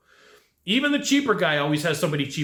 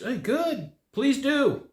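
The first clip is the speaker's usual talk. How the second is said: unbothered; 8 semitones higher, much slower than usual. Retold or imitated. Calm reply to threats.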